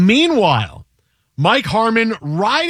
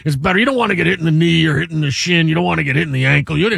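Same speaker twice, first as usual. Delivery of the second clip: lightly voiced rambling football commentator; a loose, only slightly altered sportscaster impression; John Madden; 2 semitones lower, faster than usual. Explaining to co-host why getting hit there is fine, lightly impersonated commentator. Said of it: "That was my Madden impression".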